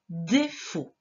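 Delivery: DÉFAUT in two separated syllables; sounded-out word. Shown as a demonstration. Teacher going over the correction, careful syllables. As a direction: say DÉ, then FAUT, carefully. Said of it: "Le deuxième mot".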